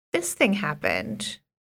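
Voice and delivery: low, put-on exaggeratedly casual, breezy, offhand delivery. Imitating how she sidles up to tell something, in a put-on overly casual tone. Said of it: "And it's like overly casual".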